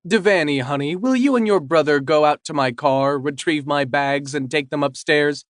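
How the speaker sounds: sweetly. Acted. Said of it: "Lori says sweetly".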